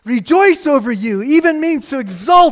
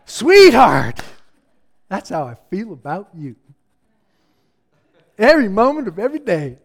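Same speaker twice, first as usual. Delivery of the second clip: tender; 5 semitones lower than usual. Acted. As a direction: speak it gently, like to a loved child. God speaking tenderly after celebration.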